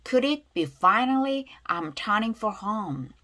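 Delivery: slow teacher's model, "for" unstressed; weak function words. Shown as a demonstration. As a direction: linger on "finally" and "home", go light on "for". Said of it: "관사 약하게 발음하고요".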